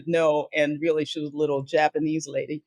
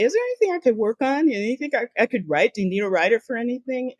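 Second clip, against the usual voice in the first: quick, higher-pitched mock pleading for work; eager asking; 6 semitones higher, faster than usual. Junior writer asking creative floor for work, eagerly. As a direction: lightly act out an eager newcomer pitching in.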